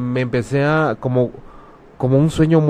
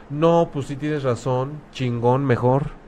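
mock grateful reply; 4 dB quieter, slower than usual.

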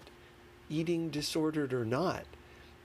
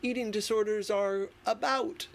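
mock dismissive; 6 semitones higher than usual. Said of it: "and saying".

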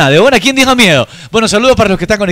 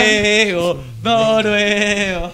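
drawn-out call; 6 dB quieter, much slower than usual. Pretend. Calling out to a listener.

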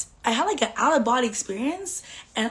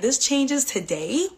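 determined; 5 semitones higher, slower than usual. Retold or imitated. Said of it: "And I was like".

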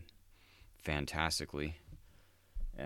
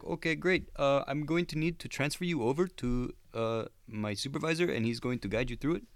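telemarketer voice; 10 semitones higher than usual. Retold or imitated. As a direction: sound pleased with the catch. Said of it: "And he's like".

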